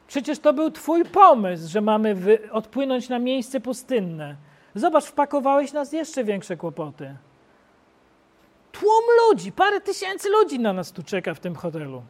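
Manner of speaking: complaining apostles. Acted. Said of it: "I powiedzieli".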